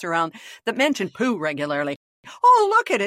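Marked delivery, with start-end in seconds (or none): 2.4-3.0 mock surprise. Mock discovery of own podcast.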